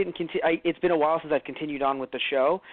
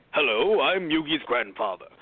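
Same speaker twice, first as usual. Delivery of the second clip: a hint of a British accent on an old grandfather; lightly British, polite old man introducing himself; slightly British grandpa; 2 semitones lower than usual. Imitating the first-season grandpa, a touch British. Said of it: "a bit more British in some ways".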